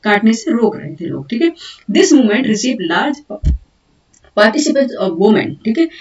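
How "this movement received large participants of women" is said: slow, deliberate dictation of English notes. Acted. Teacher dictating notes to students, slow and deliberate. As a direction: dictate each word so students can write.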